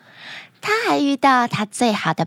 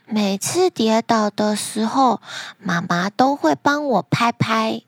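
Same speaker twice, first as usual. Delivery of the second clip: put-on self-consoling child. Girl consoles herself after falling.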